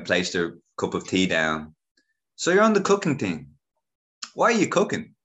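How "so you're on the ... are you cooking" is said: much higher, squealing auntie voice. Retold or imitated. Auntie voiced questioning him.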